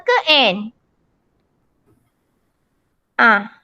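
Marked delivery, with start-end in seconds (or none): none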